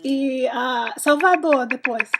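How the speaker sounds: Portuguese with an English accent; English speaker naming Brazilian cities. Real, not acted. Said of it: "estou aprendendo português".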